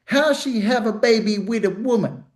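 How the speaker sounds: put-on high kid voice, reading out his question; little grandson. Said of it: "a rapper's grandson said".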